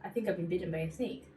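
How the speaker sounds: matter-of-fact, quick and unbothered; calm deadpan. Retold or imitated. Telling her best friend about the bite, calm and deadpan. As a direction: say it as if it's nothing. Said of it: "exactly how I said it".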